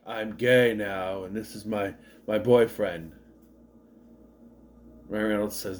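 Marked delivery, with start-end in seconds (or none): 0.1-3.1 slow, lightly imitated co-worker announcement; retold co-worker. Co-worker introducing his boyfriend, slow retold voice. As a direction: draw it out slowly, imitating him a little. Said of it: "He later does show up with Ryan Reynolds".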